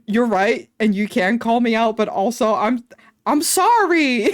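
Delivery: sheepishly grovel and stretch out the sorry; imitating her own meek apology to the nurse. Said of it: "And I was like".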